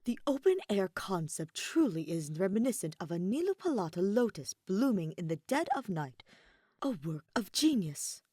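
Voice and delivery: lightly voiced mockery of a pompous friend; a faint sing-song send-up of grand talk; mild mock of a rival's flowery voice; mocking imitation. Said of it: "in a mockery of Kaveh's voice".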